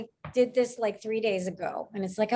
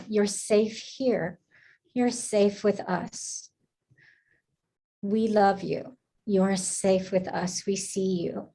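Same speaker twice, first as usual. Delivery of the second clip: slow, lower, soothing voice; tender reassurance; 3 semitones lower, slower than usual. Real, not acted. Host reassures a tearful student they are safe, tender. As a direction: comfort them slowly, one phrase at a time. Soothing a panelist who began crying.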